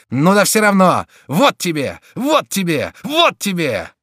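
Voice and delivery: high loud blows in words; enraged punishing taunts; furious beating. A narrator's reading. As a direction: strike with each phrase. Chico beating the duke.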